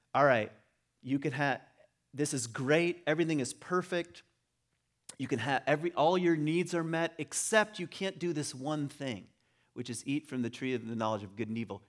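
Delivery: mock-cheery story opener laying out paradise; lightly voiced cheery promise of paradise; mock storyteller. Mock voicing of the Eden story's opening.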